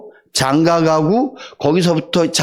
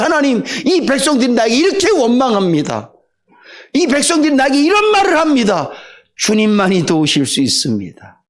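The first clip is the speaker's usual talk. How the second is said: higher, pleading lament to God, settling at the end; earnest prayer; 4 semitones higher than usual. Acted. Moses praying over the grumbling people, pleading. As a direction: pour out your complaint to God.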